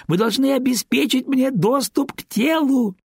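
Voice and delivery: high, prim little-nurse voice, fighting back giggles; a child's pretend bossy nurse, choking on laughter; girl playing stern nurse. Girl playing nurse scolds her patient, high and stifling laughter. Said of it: "говорила девочка".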